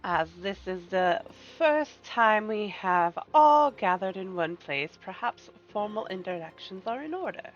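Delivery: slow, courteous villain voice; silky polite villain. Acted. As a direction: welcome the guests like a gracious schemer. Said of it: "Get your best villain voice ready".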